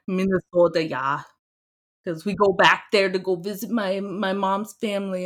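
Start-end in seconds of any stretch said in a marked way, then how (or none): 0.1-1.2 lightly put-on Minnesotan accent; hammed-up Minnesotan vowels on "Minnesota, yeah". Shown as a demonstration. Guest showing the host Minnesota's stereotype, mock Minnesotan accent. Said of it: "talking like a Minnesotan".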